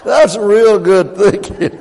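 slow laughing praise. Real, not acted. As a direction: chuckle through it. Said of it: "laugh heard".

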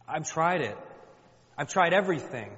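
desperate plea. Acted. Praying woman telling God she tried everything, desperate. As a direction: pitch lifting in frustrated pleading. Acts Hannah desperate in prayer.

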